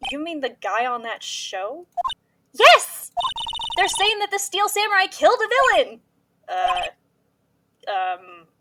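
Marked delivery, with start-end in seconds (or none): 2.5-6.0 high, loud urgent insistence; excited insistence. Acted. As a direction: insist breathlessly. Maya insisting on phone.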